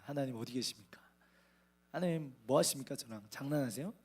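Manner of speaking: hushed, broken whisper to God; softly whispered lament; tearful whispered prayer. Retold or imitated. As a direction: whisper it like a desperate plea. Crying prayer in the taxi.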